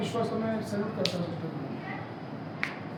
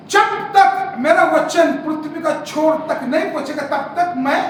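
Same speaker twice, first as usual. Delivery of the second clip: proclaiming God's word; 6 semitones higher, 9 dB louder, slower than usual. Acted. Preacher proclaims God's words.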